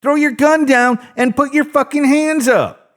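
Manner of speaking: scared man acting tough; final warning shout. A narrator's reading. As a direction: yell it like a last warning. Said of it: "as he shouted his final warning".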